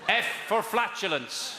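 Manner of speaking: slow Irish-sounding F for flatulence; Irish accent. Real, not acted. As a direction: lilt it like an Irish caller. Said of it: "Did you put on an Irish accent".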